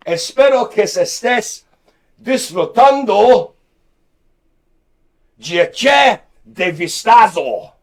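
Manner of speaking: put-on Spanish greeting in a loud, hammy German accent. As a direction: bark the Spanish like an angry German. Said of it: "I actually did Spanish there in a German accent".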